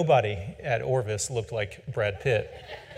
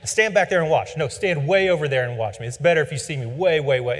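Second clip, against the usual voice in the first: an ornery old fly fishing teacher ordering his student away, mock bark; gruff old instructor barking; 4 dB louder than usual. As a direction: play the cranky teacher shooing him back. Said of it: "he's like".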